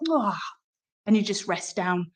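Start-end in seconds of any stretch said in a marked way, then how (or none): 0.1-0.4 breathy release sigh after a yawn; gentle yawn exhale; soft yawning ah. Shown as a demonstration. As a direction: let out a quiet sighing ah as the yawn lets go. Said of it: "and then you go".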